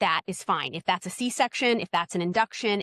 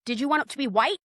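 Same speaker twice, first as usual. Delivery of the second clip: high faux-innocent; 7 semitones higher than usual. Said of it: "So I'll go".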